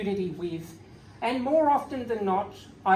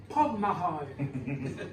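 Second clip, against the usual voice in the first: "Pog Mahone" said very slowly and lower, each syllable drawn out; sly drawn-out phrase; 4 semitones lower, 3 dB quieter, much slower than usual. Retold or imitated. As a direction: drag out "Pog Mahone" like a sly old prank. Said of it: "He said".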